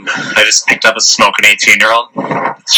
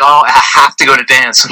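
higher-pitched mock girl voice; mimicked date insisting; 6 semitones higher than usual. Date insists she must go dance, mimicked insistence. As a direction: imitate her insisting, pitched up.

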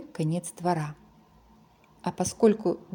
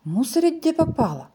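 piglet grumble; 7 semitones higher than usual. Acted. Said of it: "подумал про себя Чок".

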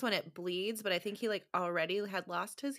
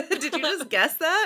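laughing; 9 semitones higher, 11 dB louder than usual. Real, not acted. Laughing at lucky guess.

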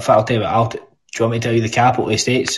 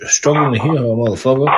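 American accent; 2 semitones higher than usual. Shown as a demonstration. Scot translates himself for American friends, mock American accent. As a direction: repeat it in mock American, swaggering. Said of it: "I'll do an American".

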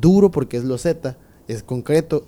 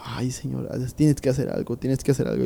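under his breath; 7 dB quieter than usual. Retold or imitated. Kneeling at the altar, begging God under his breath. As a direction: murmur the plea quietly, almost to yourself. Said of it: "entre dientes".

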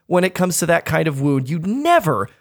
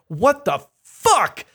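retold shocked outburst; 8 semitones higher, much slower than usual. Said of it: "literally at the top of my lungs".

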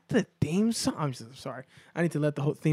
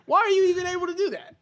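high, squeaky laughing voice; cracked up and incredulous; laughing disbelief; 13 semitones higher, faster than usual. Real, not acted. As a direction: ask it while helpless with laughter. Helpless laughter at the accent.

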